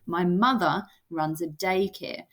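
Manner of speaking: "mother" weighted, "My" kept light; stress on second word. Shown as a demonstration. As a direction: lean gently on "mother" and "daycare". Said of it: "So kinda that second word, mother".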